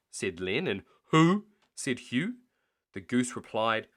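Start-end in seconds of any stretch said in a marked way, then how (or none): 1.1-1.5 high loud surprised question; startled who. Acted. Hugh hearing of the snurd, loud surprised question. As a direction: blurt it out. Thieves baffled.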